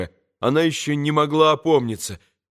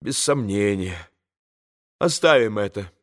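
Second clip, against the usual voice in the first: lower, clipped dismissal; curt cut-off; 5 semitones lower than usual. A narrator's reading. Katya curtly cuts Alyosha off, lightly voiced. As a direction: end the subject sharply. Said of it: "отрезала она".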